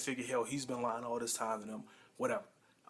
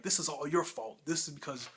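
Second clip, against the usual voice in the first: retold angry accusation, slightly raised; angry Walt mode; 3 semitones higher than usual. Husband blames his wife over the phone, mildly acted anger. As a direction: imitate an indignant husband laying blame. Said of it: "goes into his angry Walt mode".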